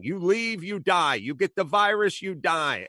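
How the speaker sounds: high, scornful mimicry of a dismissive official; mocking. Podcaster mocking the official's answer, high and scornful. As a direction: sneer it back as a mock quote. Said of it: "He's mocking the person".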